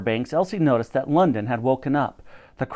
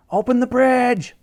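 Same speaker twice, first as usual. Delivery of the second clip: higher, slow, urgent shout; shouting back; 10 semitones higher, 4 dB louder than usual. A narrator's reading. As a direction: call the order across the ice. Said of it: "she shouted back".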